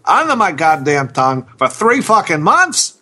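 grumbling, cursing fish; angry fish character. Acted. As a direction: play a fed-up starving fish father. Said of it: "Character number seven from two thousand sixteen from Tim".

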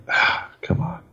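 whispered, fed-up groan of a complaint; imitating an impatient moviegoer, whispered; exasperated whisper. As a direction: sigh it out under your breath. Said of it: "you're like".

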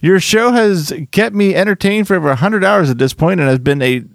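reading aloud. Acted. Host reads fan email to co-hosts, lively read-aloud. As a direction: read a listener's letter out to the room.

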